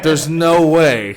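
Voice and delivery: loud, high, slow incredulous exclamation; laughing disbelief. Retold or imitated. Retelling his reaction to a racist shouting, laughing disbelief. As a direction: exclaim in amused disbelief, stretching it out.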